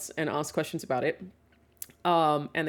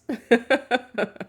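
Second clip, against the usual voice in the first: high, loud giggling fit; real amused laugh; 7 semitones higher, 7 dB louder than usual. Real, not acted. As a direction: laugh hard at your own bad odds. Laughing at her own joke.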